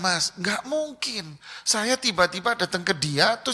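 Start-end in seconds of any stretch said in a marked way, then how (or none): 0.0-1.4 slow firm no. Shown as a demonstration. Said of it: "Saya bilang".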